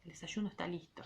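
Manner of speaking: rereading the line as the lowest voice ever heard. Shown as a demonstration. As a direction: drop to the quietest voice you have. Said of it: "Ay, lo leí re feo eso".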